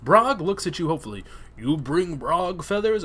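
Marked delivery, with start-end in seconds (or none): 1.6-3.0 slow, clumsy ogre voice; a weak stab at a dim ogre; horrible ogre voice. Acted. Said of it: "that was a horrible ogre voice".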